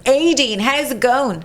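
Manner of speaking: lightly mimicked posh Dublin accent; a touch of posh Dublin greeting. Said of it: "real posh Dublin accent".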